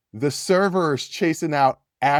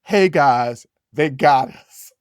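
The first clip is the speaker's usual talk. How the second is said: a louder, panicked call to his friends; mock yell; 5 dB louder, slower than usual. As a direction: call out that they are caught. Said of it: "he yells out".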